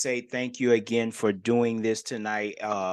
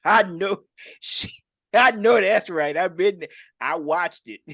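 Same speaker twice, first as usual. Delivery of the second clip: raised, loud, amused affirmation; emphatic agreement; 6 semitones higher, 6 dB louder than usual. Real, not acted. Host backing up guest's praise of his wife, emphatic agreement. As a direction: chime in high and loud, with a chuckle.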